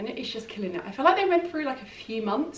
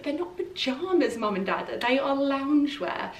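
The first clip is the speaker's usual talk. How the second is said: retold retort; 3 semitones higher than usual. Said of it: "And I was like".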